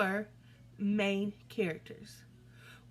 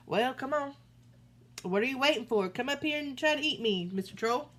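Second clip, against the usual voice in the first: higher, louder goat dare; daring goat; 4 semitones higher, 4 dB louder, faster than usual. Acted. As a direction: egg him on like a fearless goat. Goat dares troll.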